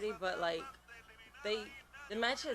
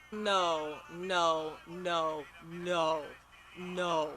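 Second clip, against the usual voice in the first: louder repeated no; loud protest; 3 dB louder, much slower than usual. Real, not acted. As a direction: refuse it out loud, word by word. Protesting surprise entrant.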